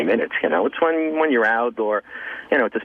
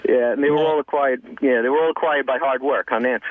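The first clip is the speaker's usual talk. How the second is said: sarcastic. Real, not acted. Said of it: "Is that sarcastic?".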